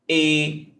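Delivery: closed E as in você; closed vowel. Shown as a demonstration. Teacher showing the circumflex sound, closed E. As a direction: say E narrow and closed. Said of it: "It makes a closed vowel sound".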